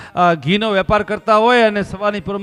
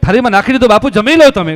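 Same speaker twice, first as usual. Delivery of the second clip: pleading building to loud; 7 dB louder than usual. Acted. Host begging the sage to eat, building to loud. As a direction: beg him, growing louder.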